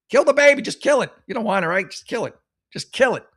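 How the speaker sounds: high, mocking put-on voice; mocking imitation. Host mocking the callous poster, in a high sneering voice.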